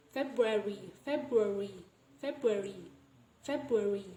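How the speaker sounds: "February" said without its first R; "February" shortened, like Feb-yu-ary; deleted R. Shown as a demonstration. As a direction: drop the R after the B in "February". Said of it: "the example of deletion of R".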